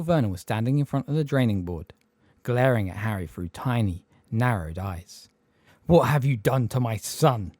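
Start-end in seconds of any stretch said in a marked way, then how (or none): 5.9-7.5 menacing growl. Acted. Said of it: "in a menacing growl".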